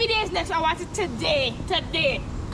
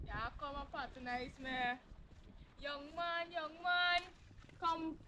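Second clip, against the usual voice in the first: street vendor call; 11 dB quieter than usual. Acted. Vendor calling out wares.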